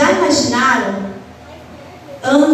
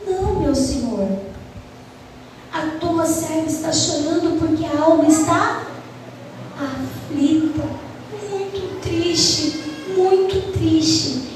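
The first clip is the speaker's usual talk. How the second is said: Hannah pleading gently with the priest, mildly sad; mild sorrowful plea; 4 dB quieter than usual. Acted. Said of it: "ela se assustou e falou".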